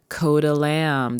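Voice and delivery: slow, drawn-out stage name; slowly announcing Coda Lamb. Shown as a demonstration. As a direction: present the rap name with weight. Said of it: "That's my rapping name".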